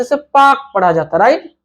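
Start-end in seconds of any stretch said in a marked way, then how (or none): 0.2-0.6 पार्क with silent R, as "paak"; British pronunciation. Shown as a demonstration. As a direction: drop the R in पार्क, long open vowel. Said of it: "British English हो गया". (पार्क को बिना र के "पाक")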